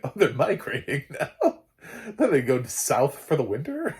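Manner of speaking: scoffing at the show while laughing; laughing mock disbelief. Real, not acted. Vlogger mocking zombie migration, laughing disbelief.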